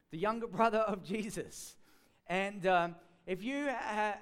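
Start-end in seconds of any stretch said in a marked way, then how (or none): 0.1-1.7 amused repeat with a real laugh. Real, not acted. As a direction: laugh through the words, louder.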